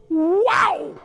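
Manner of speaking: high startled exclamation; surprised wow. Retold or imitated. Old woman splashed with water, surprised high wow. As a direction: gasp it out like a shocked old woman. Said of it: "And she goes".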